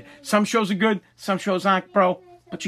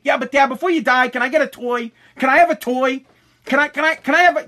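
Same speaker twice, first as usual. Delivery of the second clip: imitating pestering daughter; 5 semitones higher than usual. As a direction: nag for a toy like a little kid. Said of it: "my daughter's gonna come in".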